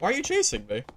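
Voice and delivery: high panicked question; alarmed, voice jumping up; being chased. Real, not acted. Fleeing enemy in game.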